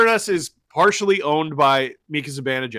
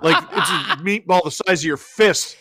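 a touch of laughter, higher and louder; half-laughing brag; 5 semitones higher, 4 dB louder than usual. Real, not acted. Laughing while describing meatball.

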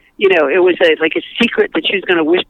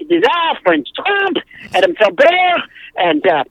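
hammed-up fake French accent, words stretched out; playful mock French accent for a comic character; bogus French accent. Shown as a demonstration. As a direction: put on a silly French accent. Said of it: "it's really fun to do a bogus French accent".

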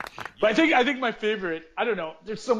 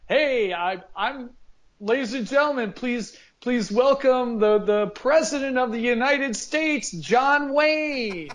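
announcer voice; 4 semitones higher, slower than usual. Retold or imitated. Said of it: "he's just like".

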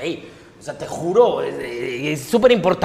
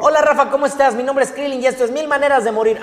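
higher-pitched cartoon character voice; lively, raised-pitch character greeting; Krillin; 6 semitones higher than usual. Shown as a demonstration. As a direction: give a greeting in a high character voice. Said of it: "mándame un saludo con la voz de Krillin".

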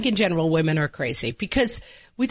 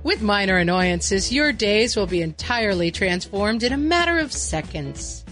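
commercial announcer; 3 semitones higher than usual. Acted. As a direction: sell it like a TV spot. Parody ad announcer.

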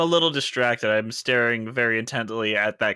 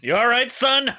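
mock gruff voice; 10 semitones higher than usual. Player voicing gruff character.

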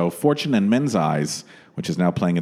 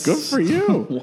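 sarcastic, slow and high; drawn-out mock cheer, laughing; much slower than usual. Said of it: "I'm like".

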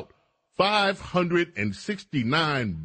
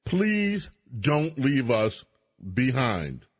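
mock pleading; 2 semitones lower, slower than usual. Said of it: "New York lawmakers are saying".

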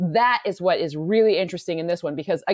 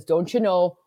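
lightly put-on Minnesota accent; a touch of playful Minnesotan. Shown as a demonstration. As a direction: show off a bit of Minnesota accent. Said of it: "I can do a Minnesota accent pretty well".

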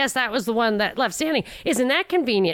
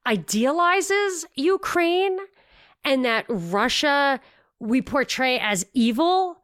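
mocking the host; 3 semitones higher than usual. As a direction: play the host as baffled and condescending. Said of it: "so the guy says".

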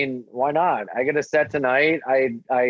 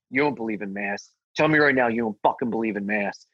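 menacing big guy; 4 semitones lower, faster than usual. Retold or imitated. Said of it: "And he's like".

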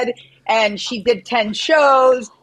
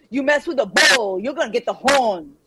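imitated Southern drawl, tailing off; attempted Southern drawl. Shown as a demonstration. Retrying after co-host's correction, attempted Southern drawl. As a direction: have another go at Southern drawl. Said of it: "you gotta nail this accent".

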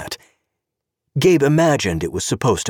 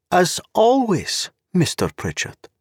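cold mocking echo; 12 semitones higher than usual. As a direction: drag out always like a cold smile. Zorena echoes his words.

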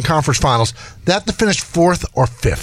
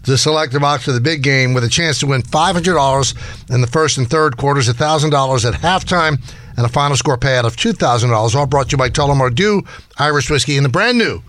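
upbeat live promo read; radio contest promo. Acted. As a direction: read it like an on-air giveaway.

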